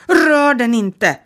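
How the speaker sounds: sharp, slow scream of a command; a furious woman screaming to stop her; shout. A narrator's reading. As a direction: scream it, stretching each word. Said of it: "skrek huvuddamen".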